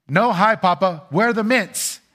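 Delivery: put-on high, eager little kid barging in; grandkid voice. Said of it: "my grandkids will come, open the door".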